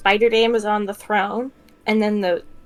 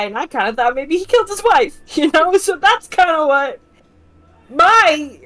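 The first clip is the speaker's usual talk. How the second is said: growing panic; 3 semitones higher than usual. Acted. Cecilia pleads with the Spider Dame, growing more and more panicked. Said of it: "you're just sounding more and more panicked".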